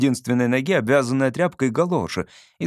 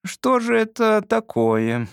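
pensive; 9 semitones higher, slower than usual. A narrator's reading. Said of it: "задумчиво промолвил я".

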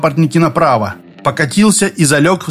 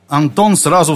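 ordinary delivery

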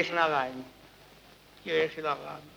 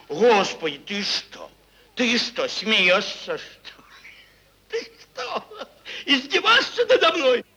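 tearful; 3 semitones higher than usual. Acted. Owner retorting to God, crying.

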